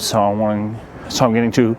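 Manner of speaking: lips numb from the cold; stumbling through cold stiff lips. Real, not acted. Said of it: "My lips are so cold".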